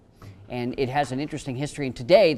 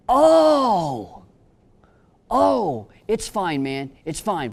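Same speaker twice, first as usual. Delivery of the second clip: much higher, louder, flustered; flustered backpedal; 6 semitones higher, 8 dB louder, much slower than usual. Retold or imitated. Inmate caught out about his teardrop tattoo, flustered backpedal. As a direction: scramble to brush it off fast.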